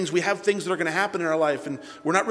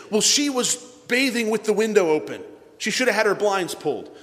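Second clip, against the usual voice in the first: higher, defensive mock protest; blame-shifting excuse; 4 semitones higher than usual. Man excusing himself for looking, blame-shifting protest. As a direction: push the blame onto her.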